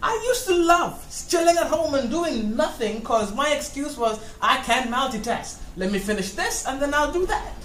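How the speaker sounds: outraged yelling through laughter; arguing with myself. Acted. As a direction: chew out your other self. Scolding the other self, laughing.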